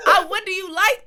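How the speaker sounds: loud laugh into the question. Real, not acted. Interviewer asking a guest, loudly laughing. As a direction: ask it while laughing hard.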